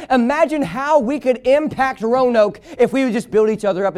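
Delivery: insistent, energetic sermon delivery; fervent preaching. Real, not acted. Preacher to church about gossip in God's household, fervent preaching. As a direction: press the point home like a preacher. Preaching on building each other up.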